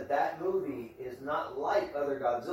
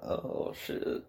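whisper; 10 dB quieter than usual. Real, not acted. Whispered reaction.

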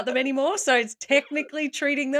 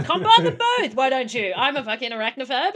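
horrified outburst; 3 semitones higher, 5 dB louder than usual. Real, not acted. Arachnophobe reacts to fungus spiders.

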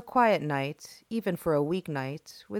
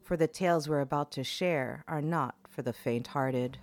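horror host; 2 semitones lower than usual. Acted. Horror podcast host intro.

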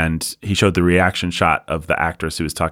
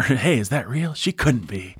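a hint of John Wayne, hushed and awed; John Wayne impression; 7 semitones higher than usual. Podcaster voicing John Wayne doubting his eyes. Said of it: "John Wayne says".

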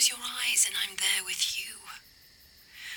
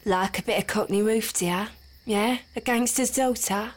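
put-on Cockney accent; 5 dB louder, faster than usual. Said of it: "Is that what I sound like?".

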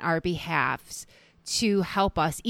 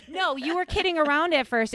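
laughing; 8 semitones higher than usual. Real, not acted. Laughing at a teasing retelling.

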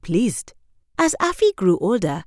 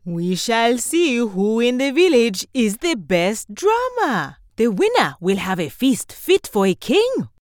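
lightly raised announcing voice; judge announcing; 5 semitones higher than usual. Acted. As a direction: proclaim to the village.

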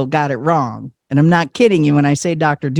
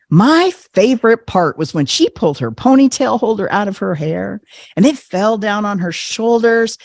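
gushing mom; 4 semitones higher than usual. Retold or imitated. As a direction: gush like a smitten old lady. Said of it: "She goes".

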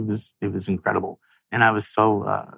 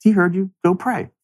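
inner voice from God; 10 semitones higher than usual. Retold or imitated. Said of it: "I hear a voice in my head".

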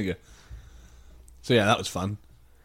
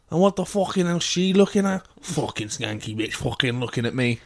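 put-on angry drunk woman. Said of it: "was like".

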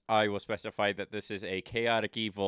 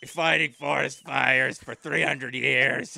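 exasperated rant; 5 dB louder than usual. Acted. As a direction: vent like a weary veteran. Weary elf ranting in joke.

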